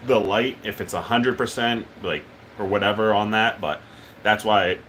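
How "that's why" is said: hiccups. Real, not acted. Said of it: "excuse me, I got the hiccups".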